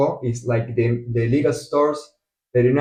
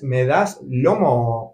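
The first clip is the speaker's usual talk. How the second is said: slow demo; 2 semitones lower, much slower than usual. Shown as a demonstration. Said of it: "The indirect way in a restaurant would be".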